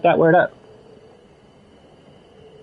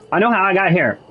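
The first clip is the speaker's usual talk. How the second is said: mock lie; 3 semitones higher, faster than usual. Shown as a demonstration. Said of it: "That's a lie".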